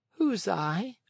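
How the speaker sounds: puzzled little creature; snail. A narrator's reading. Snail asking.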